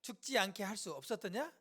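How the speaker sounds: loud, slow reproach; resentful grumbling. Acted. Bystanders doubting Jesus's healing power, resentful. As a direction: accuse him in drawn-out phrases. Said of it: "원망하는 거죠".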